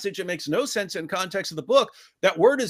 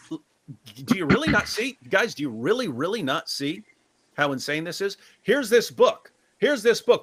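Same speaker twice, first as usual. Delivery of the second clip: usual speaking voice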